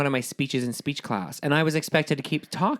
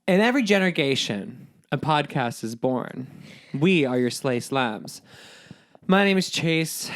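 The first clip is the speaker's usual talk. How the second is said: dramatic trailer voice. Pretend. Podcast intro, dramatic trailer voice.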